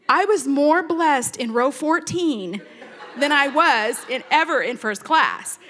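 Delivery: laughing. Real, not acted. Laughing emphatic punchline.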